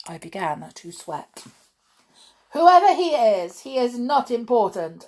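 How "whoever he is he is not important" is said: witch voice. A narrator's reading. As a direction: lord it over the crowd of witches. Announced the Grand High Witch.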